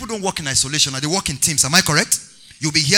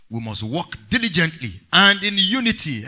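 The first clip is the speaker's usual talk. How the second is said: "diligently" and "unity" given clear emphasis; measured instruction, weighting "diligently" and "unity"; stress on diligently, unity. Real, not acted. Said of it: "Emphasis on unity. Emphasis on diligently".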